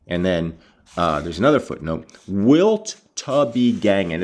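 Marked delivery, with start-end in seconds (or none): 2.3-4.2 slow rendering of Joseph's dialect; Joseph's accent. Shown as a demonstration. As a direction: spell out the rustic accent slowly. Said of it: "picked up Joseph's accent".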